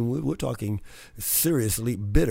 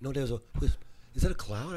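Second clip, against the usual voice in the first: normal talking voice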